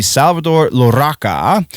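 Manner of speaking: "Larraca" with a trilled rolled R. Real, not acted. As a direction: roll the R in "Salvador Larraca". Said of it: "I rolled my R's".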